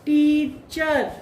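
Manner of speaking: टीचर drawn out slowly with a clear er; slow correct er. Shown as a demonstration. Teacher modelling teacher slowly. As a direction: hold the er in टीचर. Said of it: "वो गलत है".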